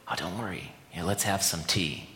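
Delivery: soft, gentle voice of Jesus, reassuring; a quiet kind offer, lightly voiced; gentle reassurance. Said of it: "to have Jesus say".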